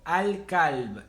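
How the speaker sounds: 'Al-Kalb' with the L sounded; full lunar article. Shown as a demonstration. Teacher gives a lunar example, clear L in 'Al-Kalb'. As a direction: say the whole 'Al' in 'Al-Kalb'. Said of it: "se lee al".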